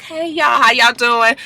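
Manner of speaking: put-on a touch of a sly girl saying hi; Brooke's greeting. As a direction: greet them with fake friendliness. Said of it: "Okay, Brooke".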